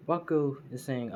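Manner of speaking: ordinary delivery, nothing marked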